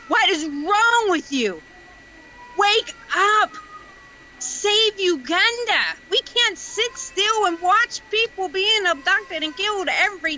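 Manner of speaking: high, impassioned plea to rise up; genuinely emotional. Real, not acted. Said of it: "I'm so sorry I'm so emotional today".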